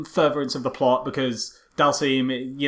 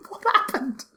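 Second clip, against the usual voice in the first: high, loud laughing questions; squealing with laughter at the pod; laughing disbelief; 4 dB louder than usual. Real, not acted. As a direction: laugh through the shock of the reveal.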